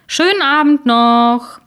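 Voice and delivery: loud, high, slow cheery sign-off; back to full volume. A narrator's reading. Spokesman bids viewers goodnight, loud and cheery. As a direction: beam a fake farewell. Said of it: "in gewohnter Lautstärke schob er nach".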